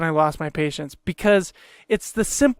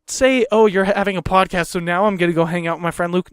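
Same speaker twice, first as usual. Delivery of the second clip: raised, heated rebuttal; exasperated retort. Retold or imitated. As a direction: argue back, voice up and tense. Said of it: "So it's like".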